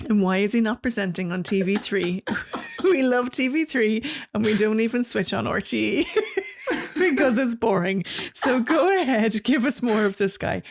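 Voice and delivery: reading a fan letter through giggles; laughing while reading. Real, not acted. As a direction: keep laughing as you read it out.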